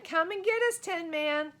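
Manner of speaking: high, loud yell of taunting; cocky kid yelling a taunt. A narrator's reading. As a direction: shout it back at him. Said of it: "yelled Fred".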